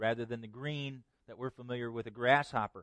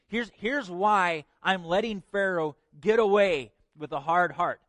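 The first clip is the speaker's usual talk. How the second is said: raised, emphatic preacher speaking as God; impassioned preaching; 5 semitones higher, 7 dB louder than usual. Acted. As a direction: preach it out, loud and higher. Preaches in God's voice.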